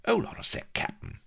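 high, tentative plea; pleading. A narrator's reading. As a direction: hold him back with a small, high plea. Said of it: "he pleaded".

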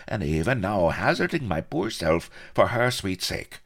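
smug, lilting self-praise; complacent boasting. A narrator's reading. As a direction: preen through the list of gallant deeds. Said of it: "whispered the Colonel complacently".

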